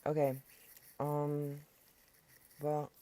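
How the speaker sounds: talking while eating popcorn; words around a mouthful of popcorn; munching popcorn. Real, not acted. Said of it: "sorry, I'm eating popcorn".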